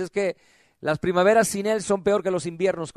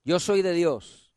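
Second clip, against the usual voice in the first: slow model phrase to repeat; slower than usual. Shown as a demonstration. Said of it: "Diga conmigo".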